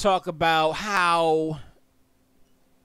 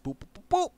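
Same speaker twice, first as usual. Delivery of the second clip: mock beeps. Ticking names down the ballot.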